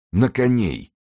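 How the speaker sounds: high, drawn call to mount; commanding call. A narrator's reading. Winter orders the men to horse, high commanding call. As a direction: raise the pitch into a rallying order.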